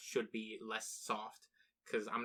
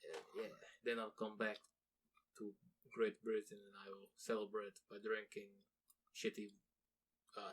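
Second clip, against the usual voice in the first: softer Russian accent, deadpan mock menace; a jokey Russian hitman accent trailing off; mock Russian assassin; 2 semitones lower, 4 dB quieter than usual. Russian hitman boasts of his plan, soft deadpan Russian accent. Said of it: "I don't know why they're Russian".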